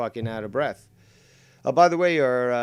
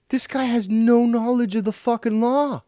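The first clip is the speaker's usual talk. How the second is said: much higher, louder furious yell; pitched-up outraged shout; 11 semitones higher, 4 dB louder than usual. Real, not acted. Furious rant at rival.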